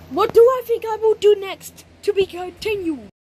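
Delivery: excited. Acted. Kid plotting revenge, cliffhanger.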